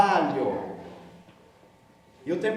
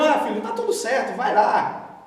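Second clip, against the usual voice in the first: mock careless forgiveness; 3 semitones higher than usual. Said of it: "Um perdão".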